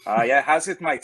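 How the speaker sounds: South African accent. Shown as a demonstration. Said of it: "South African".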